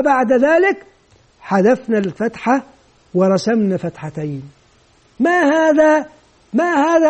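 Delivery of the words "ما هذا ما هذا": higher-pitched repeated question; teacher quizzing. Acted. Teacher asking children about the new sign, quizzing. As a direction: prompt the class for an answer.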